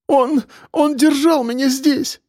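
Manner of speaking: sobbing. A narrator's reading. Girl to detective, high tearful sobbing. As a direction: sob it out. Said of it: "рыдала Катя".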